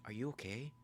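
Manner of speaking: high, soft imitated girl's question; Nikki. Nikki checks on Bear, lightly imitated high voice. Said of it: "she's like".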